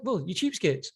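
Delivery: hammed-up dismissive tycoon; mocking the boss. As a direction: brush off the complaining family with mock contempt. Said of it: "And he's like".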